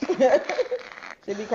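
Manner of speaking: slow, laughing drawl. Real, not acted. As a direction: stretch it out through a laugh.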